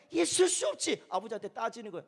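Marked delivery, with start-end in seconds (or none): 0.1-1.0 higher-pitched, protesting retort; hint of an aggrieved brother; mock indignation. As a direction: act out an offended refusal. Older brother's indignation, acted.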